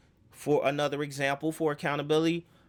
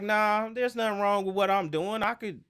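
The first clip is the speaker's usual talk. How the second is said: mock-defiant player waving off critics; a hint of stubborn excuse-making; defiant denial; 3 semitones higher than usual. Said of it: "But you like".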